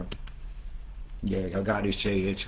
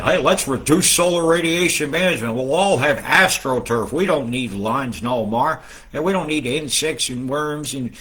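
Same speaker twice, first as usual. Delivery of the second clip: mock proposal; 3 semitones higher, 3 dB louder than usual. Mocking geoengineers pitching their plan to viewers, in a loud mock voice. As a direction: sell the bad idea with mock cheer, trailing off. Mocking people with a bad idea.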